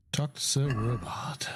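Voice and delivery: whispering. Real, not acted. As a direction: breathe it out slowly under your breath. Reading game objective aloud.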